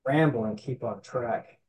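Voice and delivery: hoarse from allergies; a hoarse, scratchy throat. Real, not acted. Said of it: "I've got some coughing and some hoarse voice".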